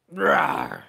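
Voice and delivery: low loud growl; dog growl. Retold or imitated. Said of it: "Dog goes".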